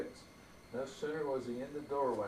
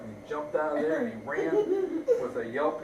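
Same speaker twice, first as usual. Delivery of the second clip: laughing while reading; 7 dB louder than usual. Real, not acted. Narrator laughing at the wolf.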